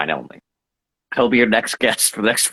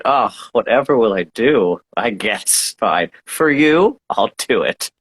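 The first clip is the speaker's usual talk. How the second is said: mock reluctance; slower than usual. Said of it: "A chance to be the spotlight?".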